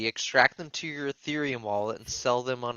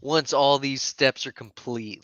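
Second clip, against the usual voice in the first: quoting the rules; slower than usual. Retold or imitated. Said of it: "I like how it's".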